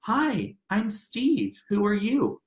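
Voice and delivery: a hint of a kindly counselor; comforting welcoming voice. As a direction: welcome a nervous student kindly. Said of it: "the most comforting, welcoming voice".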